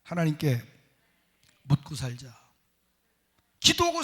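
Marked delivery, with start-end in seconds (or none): 0.0-2.4 say it for repetition. Shown as a demonstration. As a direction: lead the people to echo it. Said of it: "한번 따라해보세요". (회중이 따라하도록 부드럽게)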